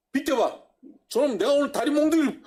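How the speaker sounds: hammed-up furious father, half laughing; angry father. Preacher imitating a father about to punish his child, laughing mock rage. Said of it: "엄마가 혼내는데 아빠가".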